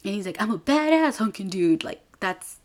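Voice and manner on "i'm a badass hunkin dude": a touch of faked macho swagger; lightly imitated girl posing as a guy; mock tough guy. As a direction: puff it up like a fake dude. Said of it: "this is Viola pretending to be a guy".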